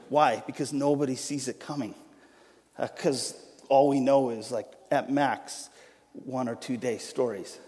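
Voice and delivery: measured, solemn Bible reading; scripture reading. Acted. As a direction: read the passage with gravity. Reads Matthew passage aloud.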